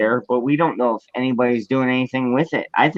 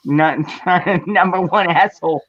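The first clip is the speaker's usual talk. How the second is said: mock Chinese accent; 4 semitones higher than usual. Joining the mock accent bit.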